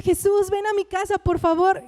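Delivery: desperate plea. Acted. Jairo begging Jesus to come to his house, mildly desperate. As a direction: beg with a touch of desperation. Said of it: "desesperado porque".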